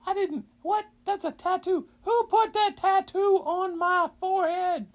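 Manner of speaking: high, fast bewildered dragon voice; confused dragon. Acted. Dragon waking up, asking who did this, high and bewildered.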